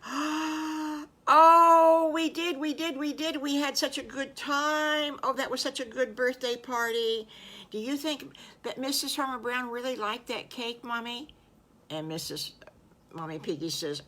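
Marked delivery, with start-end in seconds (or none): 0.1-11.3 put-on high, gushing child voice after a loud "Oh"; high-pitched, overjoyed piglet; excited little piglet. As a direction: squeal with delight like a thrilled little piglet. Piglets thrilled about birthday cake.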